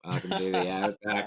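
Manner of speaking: put-on cheesy Outback Steakhouse welcome in an Australian accent; Aussie commercial voice. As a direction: sell it like a steakhouse ad. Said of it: "like, a commercial".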